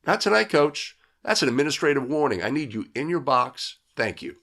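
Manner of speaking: quick, firm referee warning; firm official warning. Acted. Official telling the coach to get back in his box, firmly. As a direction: shut it down, fast and firm.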